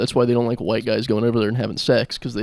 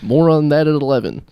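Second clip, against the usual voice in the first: louder parody newscast sign-off; mock news anchor; 4 semitones higher, 5 dB louder than usual. Comic wraps up a fake fire report for his co-host, mock newsreader. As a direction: tease the late bulletin like a reporter.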